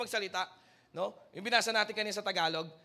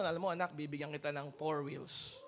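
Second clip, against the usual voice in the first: voice of God; 9 semitones lower, 7 dB quieter than usual. Acted. Preacher voices God promising a believer a car, lower and soft. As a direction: speak as the Lord promising gently. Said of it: "Bigla mo maririnig ang Panginoon".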